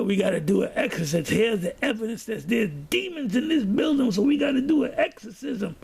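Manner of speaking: mock-dramatic retelling, pitch climbing toward the end. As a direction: build the alarm as you imitate him. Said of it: "he makes it dramatic".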